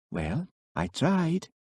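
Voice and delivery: slow, lifted and resigned. A narrator's reading. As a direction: let it go with a small shrug. Elspeth leaving after warning.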